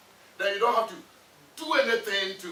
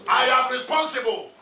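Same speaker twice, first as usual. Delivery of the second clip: 1 firm declaration; 4 dB louder than usual. Shown as a demonstration. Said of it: "Say it like you mean it".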